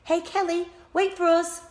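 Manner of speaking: high, loud call after her. A narrator's reading. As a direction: call to someone running off. Calling after Kelly who ran.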